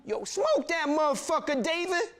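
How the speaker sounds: high yelled crowd heckle; egging on. Retold or imitated. Onlooker in the crowd egging David on, high yell. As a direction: shout him on to finish it.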